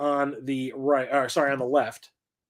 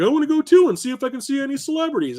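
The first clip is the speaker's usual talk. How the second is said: imitating mom; 11 semitones higher, 4 dB louder, faster than usual. Son voices his mother.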